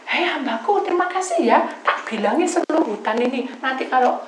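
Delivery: loud, high grateful call; joyful shouting. Retold or imitated. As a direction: call out thanks across the forest. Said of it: "saya teriak-teriak". (teriakan terima kasih yang keras)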